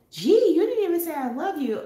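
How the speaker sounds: high mock kid voice, half laughing; imitating son's whiny complaint. Retelling son's protest, high laughing kid voice. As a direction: play the son teasing mom, high and laughing. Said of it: "and he said".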